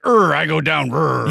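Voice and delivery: grunting caveman voice; caveman grunts. Retold or imitated. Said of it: "It also sounds like".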